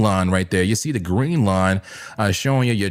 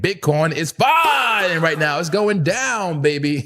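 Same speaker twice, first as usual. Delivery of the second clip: gloating; 5 semitones higher than usual. Real, not acted. Gloating as price falls.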